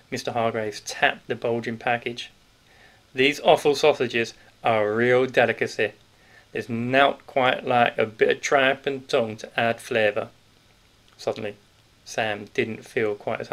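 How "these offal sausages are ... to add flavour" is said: louder, knowing Yorkshire shopkeeper voice; a big grocer letting the children in on a secret; sly northern grocer, louder than the narration; hearty Yorkshire grocer. Acted. Grocer voiced through the scene.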